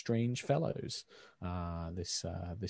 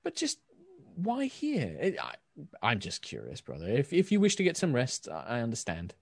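lightly voiced curious brother; 4 semitones higher than usual. Marcel voiced by GM.

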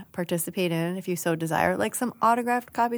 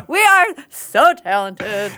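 slow, loud words through laughter; laughing; 7 semitones higher, 7 dB louder, slower than usual. Real, not acted. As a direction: laugh it out proudly. Laughing at the bit.

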